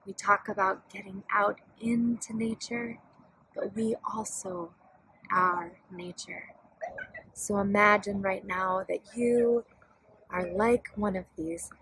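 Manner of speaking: calm meditation leader with long pauses; guided meditation. Real, not acted. Yoga studio director guiding festival listeners to breathe, calm meditation voice. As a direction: guide them gently, leaving space between phrases.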